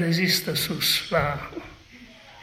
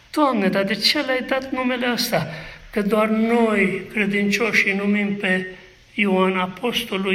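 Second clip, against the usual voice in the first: much higher, pleading question to God; 4 semitones higher than usual. Acted. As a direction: raise the voice, ask God in disbelief. Preacher voices question to God. (întrebare rugătoare, mult mai sus)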